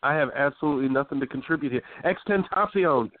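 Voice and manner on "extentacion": high, slow, drawn-out name; sheepish. Real, not acted. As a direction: offer the name with sheepish mock pride. Offering his one contribution.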